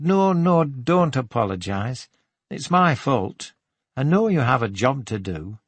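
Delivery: lightly voiced Geordie woman, apologetic; friendly, slightly lonely Geordie shopkeeper; apologetic Geordie shop assistant. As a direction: reassure him with a hint of Geordie lilt.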